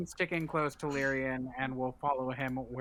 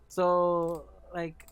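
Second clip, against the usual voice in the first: sultry voice; 3 semitones higher than usual. Acted. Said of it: "in the most sultry voice a person who's never attempted to be sultry".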